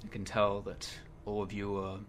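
slow, measured pronouncement to assembled warriors; lightly voiced solemn oracle. Telling gathered warriors they were brought here, solemn and slow.

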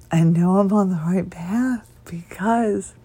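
losing her voice, near whisper; barely any voice left. Real, not acted. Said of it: "kinda like I'm doing now".

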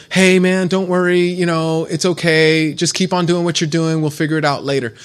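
lightly voiced parent shrugging it off; breezy permissive parent. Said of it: "and just go".

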